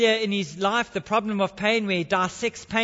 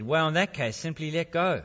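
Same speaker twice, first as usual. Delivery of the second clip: calm voice; 6 semitones lower, 4 dB quieter than usual. Acted. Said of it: "Calm voice said".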